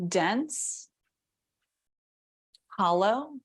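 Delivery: calm body-scan guidance with long silences; guided meditation. Real, not acted. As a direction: pose gentle questions, leaving room after each. Guides attention to body sensation.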